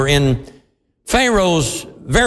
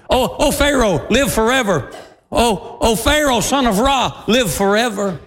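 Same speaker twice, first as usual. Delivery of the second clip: mock trembling butler; 5 semitones higher than usual. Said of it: "with trepidation and knocking knees".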